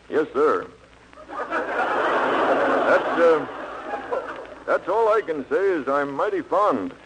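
lightly mocked laconic cowboy; Gary Cooper strong silent. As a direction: hold back every word, shy and stiff. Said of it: "like Gary Cooper with that strong, repressed, silent air".

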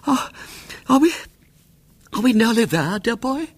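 high, fluttery and out of breath; breathless old aunt. A narrator's reading. Weary aunt asking William if they are nearly there, breathless. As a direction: puff it out like a tired old lady. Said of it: "she grew silent and rather breathless".

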